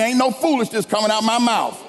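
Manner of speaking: like you mean it. Shown as a demonstration. Preacher urging the congregation to repeat it, meaning it. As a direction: declare it with conviction. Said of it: "say it like you mean it".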